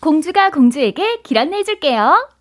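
a light, sweet fairy tale princess; Princess Anna voice. Shown as a demonstration. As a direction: chirp it like a cartoon princess. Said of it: "라이브로 좀 한번 들려주시죠".

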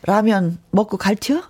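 Chungcheong dialect, rising question; 충청도 사투리. Shown as a demonstration. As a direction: ask it in an easygoing Chungcheong dialect. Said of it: "충청도 버전". (충청도 사투리로)

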